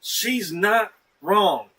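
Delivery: loud, slow, drawn-out agreement; emphatic agreement. Real, not acted. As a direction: stretch it out, big and loud. Agreeing emphatically with podcast host.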